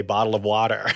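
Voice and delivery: "Bottle of water" in an Australian accent, water without r. Shown as a demonstration. Mocking the Australian way to say "Bottle of water". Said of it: "without having to say".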